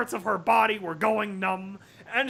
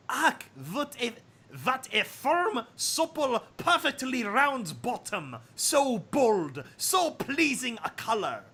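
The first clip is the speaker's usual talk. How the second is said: leering admirer voice; 3 semitones higher than usual. Acted. Admiring voice hidden in story.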